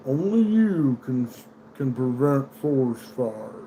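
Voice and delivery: slow, drawn-out Smokey the Bear slogan. Retold or imitated. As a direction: read it slow like the old PSA. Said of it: "Smokey the Bear says".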